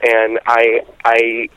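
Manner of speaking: halting, distressed confession with long pauses; real hurt, struggling to get it out. Real, not acted. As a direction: admit you're breaking down, stopping and starting. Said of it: "I hear in your voice that you're going through".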